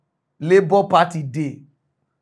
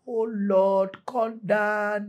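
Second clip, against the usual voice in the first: crying for help; 2 semitones higher, 6 dB quieter, much slower than usual. Retold or imitated. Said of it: "una go dey cry for help".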